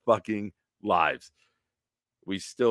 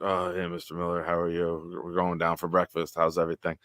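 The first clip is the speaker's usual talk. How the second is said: fake innocent; 2 semitones lower, 5 dB quieter than usual. Hungover teens faking innocence to dad.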